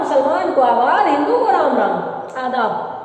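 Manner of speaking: big sing-song showman's patter; magician's patter tone. Shown as a demonstration. Street magician greeting the crowd before the show, big patter tone. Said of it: "बड़ी tone यही होती है".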